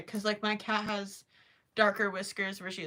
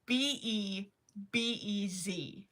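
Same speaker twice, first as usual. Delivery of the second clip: spelling out letters; 2 semitones lower, slower than usual. Shown as a demonstration. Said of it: "It's spelled".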